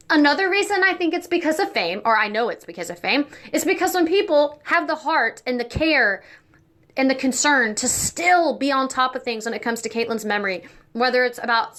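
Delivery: talking with a toothbrush in mouth; words around a buzzing toothbrush; brushing teeth while talking. Real, not acted. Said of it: "sorry, I'm brushing my teeth".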